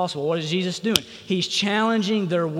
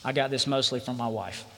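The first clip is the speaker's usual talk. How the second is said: slow and soft; 5 semitones lower, 6 dB quieter, faster than usual. Real, not acted. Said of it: "I'm gonna say this slowly".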